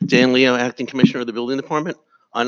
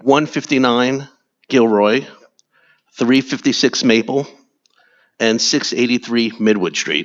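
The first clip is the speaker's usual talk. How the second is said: speaking up; 4 dB louder than usual. Real, not acted. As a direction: repeat it loudly for someone who couldn't hear. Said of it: "Could you speak a little louder".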